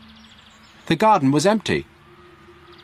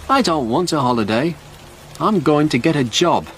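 higher-pitched, mildly acted resolve; determined Stewart; 7 semitones higher than usual. Stewart tells the sergeant his plan, mildly determined. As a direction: announce your plan in a raised pitch.

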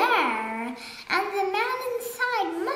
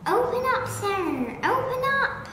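high, raised command; shouted demand; 8 semitones higher, 4 dB louder than usual. A narrator's reading. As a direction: order it open sharply. Duke demands the beak open.

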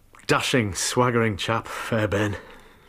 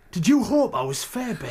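higher, with a bitter laugh; mock her with a sour laugh; bitter taunt; 9 semitones higher than usual. Jealous husband sneering at his wife, laughing bitterly.

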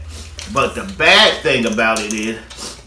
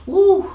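burning-mouth whoop; 5 dB louder than usual. Real, not acted. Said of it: "spicy heat hitting".

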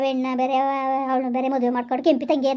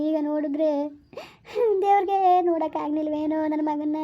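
weeping lament; 2 semitones higher than usual. Acted. Mother mourning her son before the elders, tearful lament. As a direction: grieve aloud for the lost son. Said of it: "ಅಳ್ಬೇಡಿ".

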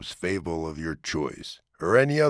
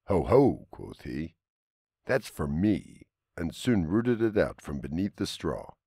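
story narration. A narrator's reading. Reads a fable aloud.

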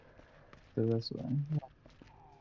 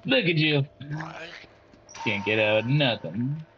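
taunting; 2 semitones lower than usual. Real, not acted. Taunting trapped monster behind bars.

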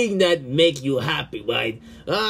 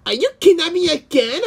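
panicked; 12 semitones higher, 4 dB louder, faster than usual. Acted. Character fears being kidnapped.

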